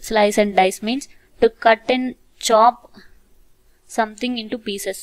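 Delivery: very slow, spaced-out reading; slow dictation. Shown as a demonstration. Teacher dictating the meaning of slice and dice, very slow. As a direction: spell it out slowly for learners.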